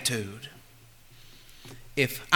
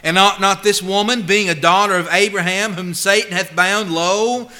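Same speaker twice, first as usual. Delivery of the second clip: preacher reading with force; scripture reading. Acted. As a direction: read Jesus' rebuke with force. Reads Jesus' rebuke from Luke.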